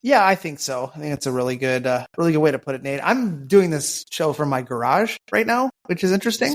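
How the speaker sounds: echoey garage sound; talking in an echoing garage. Real, not acted. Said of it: "I sound a little echoey".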